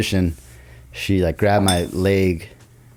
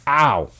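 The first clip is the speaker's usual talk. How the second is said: raised-pitch mock "ow"; imitated pain cry; 5 semitones higher than usual. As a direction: act out a yelp while hobbling. Re-enacting pain while hobbling.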